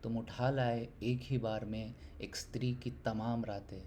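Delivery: earnest Hindi poem reading, swelling and subsiding; poetry recitation. Acted. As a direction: recite the poem with measured pauses, building on emphatic lines.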